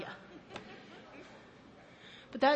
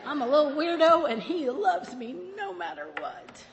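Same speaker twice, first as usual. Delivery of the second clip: high on life; 3 semitones higher, 4 dB louder than usual. Retold or imitated. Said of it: "high on life going".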